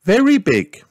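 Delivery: high, loud sighing rabbit lady; Miss Rabbit sighing. A narrator's reading. Miss Rabbit sighs to Mummy Pig, high and loud. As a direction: sigh it out as the fussy rabbit. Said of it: "she said into her phone".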